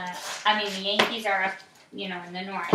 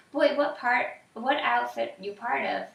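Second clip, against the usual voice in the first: barked; 3 semitones higher than usual. Acted. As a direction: bark it at the boy. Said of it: "the leader barked".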